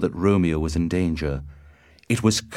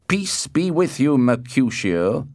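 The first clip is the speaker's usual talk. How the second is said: Tybalt's greeting; 7 semitones higher, 4 dB louder than usual. A narrator's reading. Tybalt greets Mercutio before the fight, in a raised voice.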